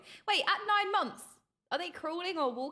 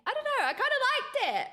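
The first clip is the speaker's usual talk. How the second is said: laughing; 8 semitones higher, much faster than usual. Real, not acted. Giggly reaction to cringe trailer.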